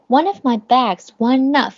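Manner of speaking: One of linked as wun-nov, the n carried into of. Shown as a demonstration. Teacher demonstrating the linking in one of. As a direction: join the n of One onto of. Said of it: "连读，n-，of，n-，of".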